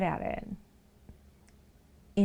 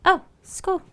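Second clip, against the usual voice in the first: cooing pet voice; 11 semitones higher, 5 dB louder than usual. Real, not acted. Offering the cat a treat.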